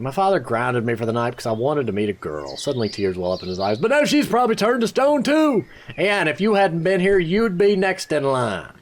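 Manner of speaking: high, lightly acted tearful voice; tearful young man. Apprentice Word telling the hero, a touch tearful. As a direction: hold back tears over the girl.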